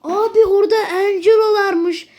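laughing in disbelief. Real, not acted. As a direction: say it through a laugh. Laughing at the surprise.

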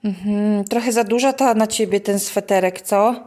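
mother chats with her little daughter about her toy. Real, not acted. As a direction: coax the little one along. Talking to toddler.

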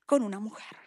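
whispered like sharing a secret; susurro confidencial. Retold or imitated. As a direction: drop to a hushed whisper for the scandal. Amiga cuenta chisme en secreto. (susurro de chisme)

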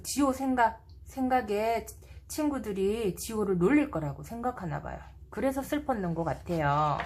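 put-on gentle storybook voice for little kids; reading to a toddler. A narrator's reading. Reads picture book to children. (아이에게 동화 읽어주는 목소리)

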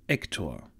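distant call of a name; a far-off voice calling out; calling from afar. Acted. Old priest calling the novice from a distance.

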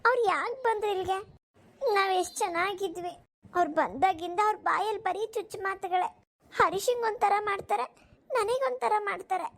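high, tearful pleading to mother; tearful complaint. Acted. Daughter to her mother about the grandmother, tearful and high. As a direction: pour out the hurt through tears. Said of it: "ಅಳ್ತಿದ್ಯಾ?".

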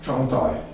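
Chantaille opening with ch as in church; patois pronunciation. Shown as a demonstration. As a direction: say Chantaille as chan-TIE. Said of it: "in patois".

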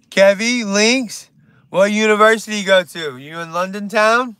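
jumbled mock British accent; attempted British accent. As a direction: put on a bad London accent. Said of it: "my accents, like, kinda".

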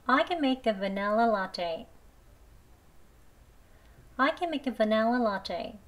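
the sentence spoken very slowly, "vanilla" with an e, "va-NEL-la"; slow reading, e in vanilla; slow e version. Shown as a demonstration. Teacher reading the practice line slowly, e version. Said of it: "vanilla라고 할게요".

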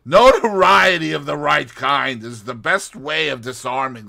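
high, loud anxious warning; Russian man pleading, rising to alarm; agitated Russian man. Acted. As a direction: urge her, rising to alarm. Boris voiced, agitated warning.

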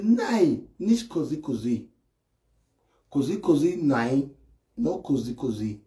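low, fading mock-Italian protest; imitating broken Italian. Immigrant pleading to carabinieri in broken Italian, fading low. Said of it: "they tell Carabinieri, say".

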